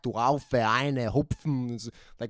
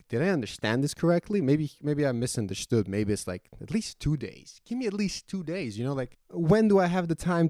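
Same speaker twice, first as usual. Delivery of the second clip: higher-pitched, retold disbelief; bewildered plea; 5 semitones higher than usual. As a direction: plead in mock bewilderment, voice climbing. Retold bewildered plea for more time.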